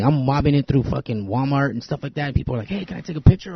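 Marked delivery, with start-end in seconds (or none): 2.7-3.5 higher-pitched mock fan request; eager fan, imitated. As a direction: imitate a fan approaching a star. Fan stopping him, retold.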